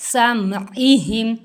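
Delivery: समइहिम with the lam vowel drawn out long; elongated lam. Shown as a demonstration. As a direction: stretch समइहिम slowly as in recitation. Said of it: "लाम को लंबा करेंगे". (समइहिम में लाम को लंबा खींचकर)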